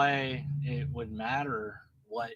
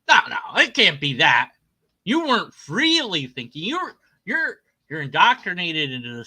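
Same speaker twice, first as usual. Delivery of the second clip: mocking opponent; 3 semitones higher, 5 dB louder than usual.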